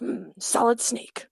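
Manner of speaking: slow, lightly put-on game hero; lightly gruff hero with cut-off word endings; Snake. Shown as a demonstration. Showing how the endings cut off, lightly gruff. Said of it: "a little more cut off".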